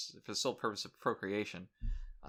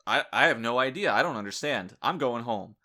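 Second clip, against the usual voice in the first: flustered denial; 6 dB louder than usual. Retold or imitated. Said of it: "and the guy says".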